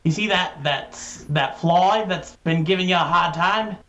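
a self-admittedly bad Australian accent, lightly done; a hint of a friendly Australian bloke, badly done; lightly voiced Aussie spider in an Australian accent. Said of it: "That's my Australian accent. It's really bad".

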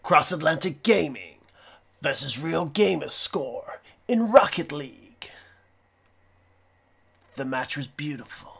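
dramatic wrestler trash talk with long pauses; pseudo wrestler promo. Acted. Calling out a rival podcast before round two, mock wrestler promo. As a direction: deliver a challenge in short, spaced-out bursts. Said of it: "our weird pseudo wrestler things".

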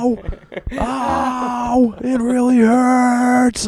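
high, loud, slow mock howl of pain; imitating father's yell. Imitating his father slipping on icy stairs, high mock yelp. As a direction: ham up a hurt old man's yelping. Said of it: "This is what he's fucking yelling".

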